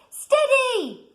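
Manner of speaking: high called-out steady; mild shout. A narrator's reading. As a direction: call it out playfully as Duck. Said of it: "shouted Duck".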